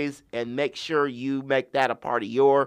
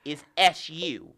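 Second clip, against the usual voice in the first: wrestling promo. Pretend. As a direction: talk down to him like a cocky champ. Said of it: "Cut a promo on him".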